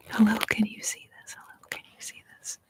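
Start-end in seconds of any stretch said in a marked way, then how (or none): 1.4-2.6 much softer, barely audible whisper; faint whisper. Real, not acted. ASMR host checks whether viewers see the message, faint whisper. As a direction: whisper it quickly, almost inaudibly.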